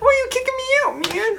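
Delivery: high squeaky yell; cracking yell. Pretend. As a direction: shout it and let the voice crack. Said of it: "your voice just cracks as you're yelling".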